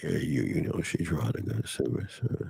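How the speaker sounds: put-on seductive whisper, soft, breathy and hushed. Mocking the caller Arthur, imitating Arthur's seductive voice. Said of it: "stop trying to seduce us".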